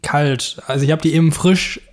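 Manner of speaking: kauend sprechen; mit vollem Mund. Real, not acted. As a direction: redet mit Brötchen im Mund. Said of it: "wenn man mit vollem Mund spricht". (mit vollem Mund ins Mikrofon schmatzend)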